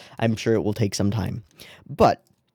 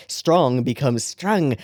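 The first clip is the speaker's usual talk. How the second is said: Irish accent; much slower than usual. Shown as a demonstration. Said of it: "a strong Irish accent".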